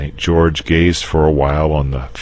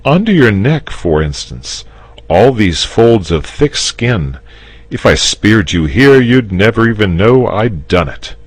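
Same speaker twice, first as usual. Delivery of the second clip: higher, louder, coaxing; patient knight; 7 semitones higher, 7 dB louder than usual. Acted. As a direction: show him the easy spot. George's speech, character voice.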